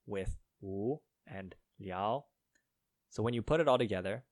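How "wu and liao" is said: wu and liao, each drawn out with a rising tone; slow teaching demo of wu and liao, same rise on each; two second tones. Shown as a demonstration. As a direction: sound out wu, then liao, slowly, both lifting. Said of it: "W U in the second tone and L I A U also".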